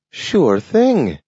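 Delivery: high, bright offer to hunt; a dog keen to go after the squirrel; eager talking dog. A narrator's reading. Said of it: "said Nathaniel".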